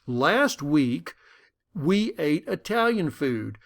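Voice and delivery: slow, indignant denial; mildly defensive retort. Retold or imitated. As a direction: insist you're being lied about. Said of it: "comes back very defensively".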